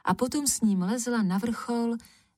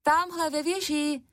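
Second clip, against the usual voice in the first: calling out; 8 semitones higher than usual. A narrator's reading. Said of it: "zvolala Černucha".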